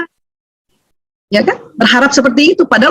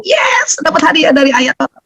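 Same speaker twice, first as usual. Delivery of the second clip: happy exclamation; 5 semitones higher than usual. Retold or imitated. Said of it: "seneng aja".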